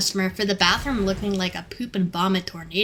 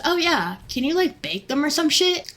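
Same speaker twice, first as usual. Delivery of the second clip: dumb customer; 6 semitones higher than usual. Retold or imitated.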